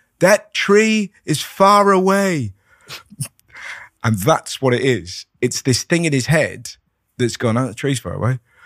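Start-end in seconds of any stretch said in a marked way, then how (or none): 0.2-2.5 put-on, very high, very slow, drawn-out yell. Retelling repeating something a third time to a man who can't hear, retelling a yell. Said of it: "But now I'm yelling at him".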